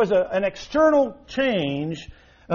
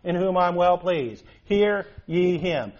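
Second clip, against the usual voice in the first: voice of God; 3 dB louder, slower than usual. Acted. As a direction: intone it as God's voice from the cloud. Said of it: "we have it recorded for us in the text".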